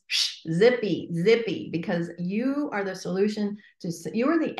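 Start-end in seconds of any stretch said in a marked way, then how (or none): 0.1-1.7 slow, firm shush to zip it. Shown as a demonstration. Coach hushing a listener's fear, slow and firm. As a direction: tell the fear to zip it, slowly. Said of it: "Shut up being scared".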